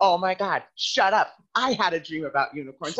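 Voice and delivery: mock amazement at the coincidence; excited friend. Ron imitating Nicole thrilled about her own unicorn dream.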